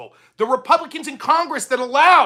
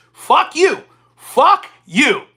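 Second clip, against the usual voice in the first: loud, higher, furious outburst; angry shout; 5 semitones higher, 6 dB louder, much slower than usual. Real, not acted. Telling off the commenter Rick, furious shouted curse. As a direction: spit it out at him with real anger.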